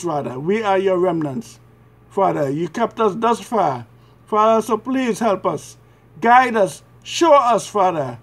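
earnest, measured prayer in short phrases; pleading prayer. Real, not acted. Praying to the Father for mercy and forgiveness, pleading. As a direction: pray as a penitent, pausing between pleas.

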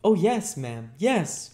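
put-on high, loud, eager boy; eager Oliver. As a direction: agree quickly and keenly as a little boy. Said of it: "replied Oliver eagerly".

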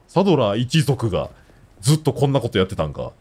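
normal talking voice

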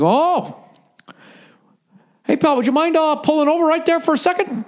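very high, overly polite cop voice; mock-nice order to pull over; Canadian border guard. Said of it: "He's a Canadian dude".

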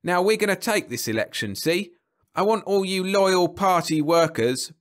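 high, loud political speechifying; booming speech. A narrator's reading. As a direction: rouse the party faithful from the platform. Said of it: "hearing the booming voice".

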